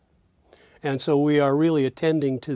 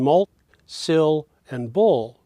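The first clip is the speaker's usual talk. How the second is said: "mul, sil, and bul" separated, "sil" highest; primary stress; slower than usual. Shown as a demonstration. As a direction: give "sil" the peak between "mul" and "bul". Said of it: "is the highest pitch".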